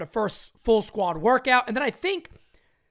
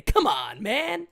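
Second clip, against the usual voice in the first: Joe Biden impression; slower than usual. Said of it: "did a little Joe Biden right there".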